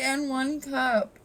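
drawn-out slow delivery; slow punchline. Retold or imitated. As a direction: say it slowly like a punchline. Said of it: "I really wanted to say".

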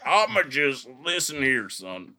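slow mock old-timer, dropping away at the end; elderly Black man. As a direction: lightly imitate an old man lecturing. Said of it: "sound like a elderly black man".

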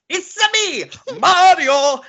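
high, loud, hammed-up catchphrase; Mario. Mocking the trailer reveal in a high, exaggerated character voice. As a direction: burst in with a big cartoon-hero cry. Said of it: "he just comes on screen and goes".

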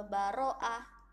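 "baro'ah" slowed and stretched as if unsure; hesitant drawn-out reading. Shown as a demonstration. Teacher imitating a pupil unsure of the letter. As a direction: drag out "baro'ah" while thinking. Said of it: "karena masih bingung".

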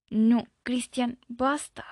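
slow, tense pleading; a touch of fear, drawn out; tense plea. Acted. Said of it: "Su voz se puso tensa". (súplica tensa y lenta)

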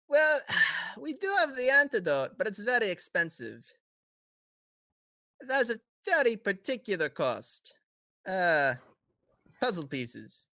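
sly sales pitch through a grin; grinning. Acted. Murdoch offers an expensive antidote for puzzle pieces, grinning. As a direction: grin while naming the price. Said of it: "I'm gonna grin and go".

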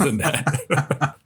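slowing into a real laugh. Real, not acted. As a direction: finish the story breaking into laughter. Laughing at end of own story.

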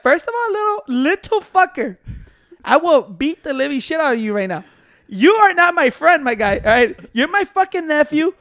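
acted uncle's threat, drawn out; retold stern scolding. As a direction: lay down the law to a nephew, word by word. Retells threatening his nephew.

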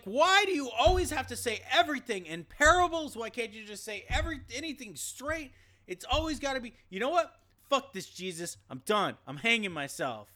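high, loud fed-up whine; exasperated Judas. Acted. Judas fed up with Jesus's parables, high exasperated whine. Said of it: "And Judas is like".

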